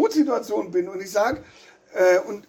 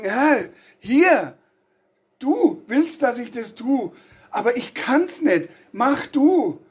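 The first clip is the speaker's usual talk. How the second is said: urging prayer; 3 semitones higher, slower than usual. Retold or imitated. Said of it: "Gott darauf aufmerksam machen".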